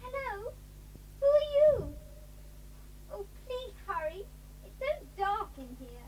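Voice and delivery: muffled, far off behind a heavy door; distant, muffled and pleading. Acted. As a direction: call out from inside a locked room. Girl locked behind dungeon door.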